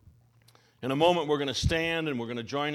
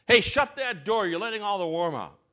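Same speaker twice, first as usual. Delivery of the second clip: yell; 4 semitones higher, 4 dB louder than usual. Retold or imitated. Deli customer yelling at the newcomer to shut the door, loud. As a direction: bark at whoever left the door open. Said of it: "somebody yells".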